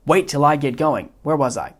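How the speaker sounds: a hint of a fussy, self-satisfied villain; Wallace Shawn's Vizzini. Teacher reading Vizzini's lines to the class, mild smug imitation. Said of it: "mimicking Wallace Shawn's inflection".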